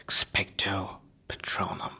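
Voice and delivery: whispered Expecto Patronum. Acted. Harry rehearsing the incantation, whispered. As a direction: breathe the Expecto Patronum under your breath. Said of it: "Harry repeated under his breath".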